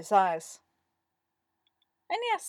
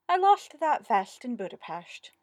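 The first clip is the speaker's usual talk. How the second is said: plaintive, raised-pitch lament; sad; 6 semitones higher, 5 dB louder than usual. A narrator's reading. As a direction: mourn it with a touch of sadness. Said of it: "Darren said sadly".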